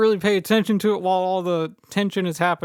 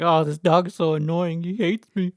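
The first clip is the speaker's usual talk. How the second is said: put-on whiny, irritated teen griping; mock exasperated brat; bitchy; 3 dB louder than usual. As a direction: complain with bratty annoyance. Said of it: "Annie being her bitchy self".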